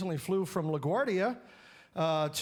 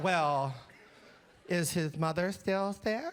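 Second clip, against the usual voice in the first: imitated, nasally put-on voice. Retelling a phone call, the speaker imitates her questions in a nasally voice. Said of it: "[ Nasally voice ]".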